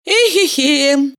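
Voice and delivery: slow sighing eh-he-he; heavy sigh. A narrator's reading. Valeria sighs over the empty pocket, heavy sigh. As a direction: sigh it out wearily. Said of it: "тяжко вздохнула".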